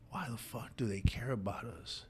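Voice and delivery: softly imitating a hurt little boy. Brother in tears asks why they care about them, softly boyish. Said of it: "like a little boy, and he goes".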